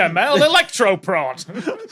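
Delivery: upbeat TV sales pitch; infomercial voice. Pretend. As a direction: sell it like a late-night ad. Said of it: "You nailed the J M L infomercial voice".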